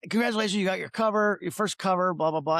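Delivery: bright, quick mock congratulation; cheerful congratulations. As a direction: rattle off the good news, upbeat. Editor calling with news.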